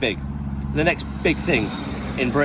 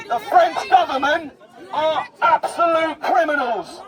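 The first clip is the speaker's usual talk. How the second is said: ranting shout; 3 semitones higher than usual. Real, not acted. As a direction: yell the accusation. Ranting at camera during confrontation.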